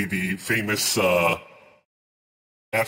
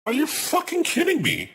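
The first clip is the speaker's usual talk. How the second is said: much higher, incredulous shriek; shrieking disbelief. Real, not acted. Streamer outraged at game announcement.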